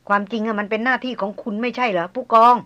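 a light sneer on the tail of the question; mild mocking. Maria needling the hunter captain, mild mockery. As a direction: tease the captain, faintly. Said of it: "มาเรียพูดหางเสียงเยาะ".

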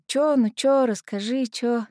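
nagging. Acted. Friend pumping Наташа for news on the street, nagging. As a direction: pester for news, pitch jumping up. Светка выпытывает новости на улице.

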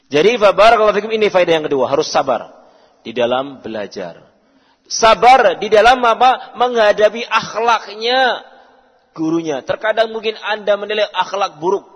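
loud pulpit exhortation; fervent preaching. Acted. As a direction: drive the point home to the students. Preaching at full force.

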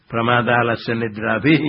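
"भी" held as an open ee, no final s; wrong visarga ending. Shown as a demonstration. Teacher warning students of the error, "भी" long without s. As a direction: end on a long "भी", dropping the s. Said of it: "विसर्ग बोलना गलत है".

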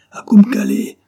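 husband's strangled shout to ride. Acted. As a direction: choke out the destination. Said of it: "d'une voix étranglée".

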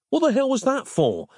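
high-pitched indignant protest, little added volume; yelling. A narrator's reading. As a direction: demand an explanation, affronted. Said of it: "Nick yelled inside".

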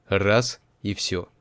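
usual speaking voice

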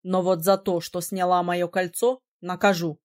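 a hint of a surprised young man; lightly voiced prince. A narrator's reading.

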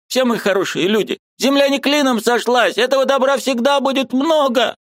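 put-on high, pleading old woman's voice; an aunt who can't bear it any longer; distressed old aunt. A narrator's reading. Aunt Marfa pleading with her pale niece, high and anguished.

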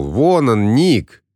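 put-on high, excited child calling out; excited shout. A narrator's reading. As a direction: point and call out gleefully. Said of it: "Джаспер закричал".

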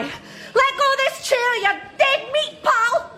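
threatening. Acted. Threatening a man over chair.

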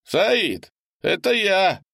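freezing man outside begging to be let in; desperate shouting man. A narrator's reading. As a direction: pound on the door with your voice. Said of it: "раздался голос Леонардо".

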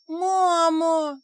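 put-on high wailing cry of a child spirit; sobbing wail. A narrator's reading. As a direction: wail it through sobs. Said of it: "так зарыдал". (рыдающий вопль)

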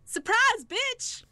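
high, loud "Surprise, bitch!" sprung on her; gleeful shout. Pretend. Host springs the show's catchphrase on a caller, loud and gleeful. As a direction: yell it to startle the caller. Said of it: "it's time now for Surprise Bitch".

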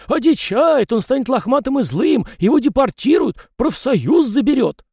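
high loud wailing cry; shouted. A narrator's reading. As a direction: cry it out in despair. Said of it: "выкрикнул Тихон".

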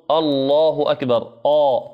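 الله أكبر with a heavy, thick hamza; wrong heavy hamza. Shown as a demonstration. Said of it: "نسمع كثيرًا ما يقولون".

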